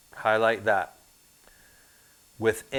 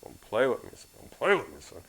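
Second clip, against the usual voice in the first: mock threat; 2 semitones lower, 7 dB quieter than usual. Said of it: "I had to threaten, be like".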